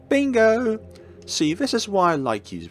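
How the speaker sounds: high, gloating and delighted; gleeful villain. Acted. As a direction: crow it like a smug villain. Villain gloats, pitch jumps.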